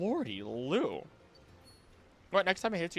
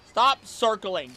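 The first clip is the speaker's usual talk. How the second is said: slow, louder, higher stop circling; drawn-out scold; 8 semitones higher, 7 dB louder, much slower than usual. Real, not acted. Streamer scolding a circling fish, slow loud scold. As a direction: stretch it out like scolding a pet.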